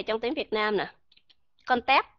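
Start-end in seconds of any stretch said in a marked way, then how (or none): 1.7-2.0 "Con tép" with the p unreleased; "Con tép" stopped short on closed lips; closed-lip final p. Shown as a demonstration. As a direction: shut the lips to end "Con tép", no puff. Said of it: "đang đóng miệng".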